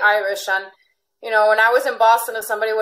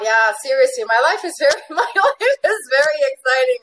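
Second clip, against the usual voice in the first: laughing; 4 semitones higher than usual. Real, not acted. Giddy about her exciting year.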